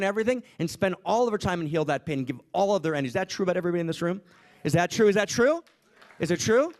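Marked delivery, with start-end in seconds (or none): 4.6-6.7 insistent challenge. Real, not acted. Challenging the audience repeatedly.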